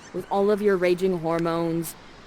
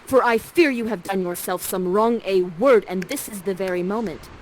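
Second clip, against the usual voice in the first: firm and louder, a stern mother warning a suitor; strong, commanding; 4 dB louder than usual. Acted. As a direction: bear down on him with each word. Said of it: "says to him in a very strong way".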